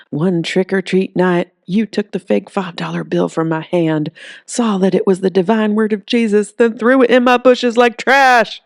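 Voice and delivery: a grudge told like scripture; indignant zealot. Acted. Zealot accuses boy.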